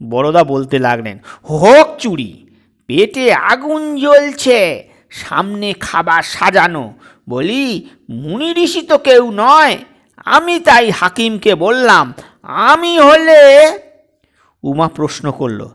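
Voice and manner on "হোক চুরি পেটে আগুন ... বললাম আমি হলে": rising loud, climbing higher; impassioned. Acted. Father arguing to his daughter, loud and heated. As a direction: press the point with growing heat.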